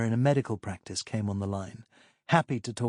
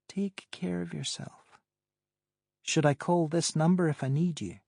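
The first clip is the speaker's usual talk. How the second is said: lightly voiced woman, higher pitch; higher woman's voice; 6 semitones higher than usual. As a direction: play Pamela, amused and higher. Pamela on phone.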